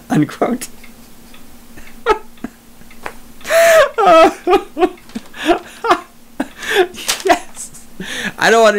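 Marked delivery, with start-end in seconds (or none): 2.9-4.9 high shrieking cackle; shrieking laugh. Real, not acted. Host cracking up at the politician's logic, shrieking laugh.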